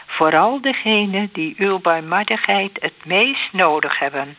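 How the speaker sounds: devout, evenly phrased plea; prayer recitation. Real, not acted. Praying to Jezus for forgiveness and mercy, measured prayer recitation. Prays closing rosary prayer.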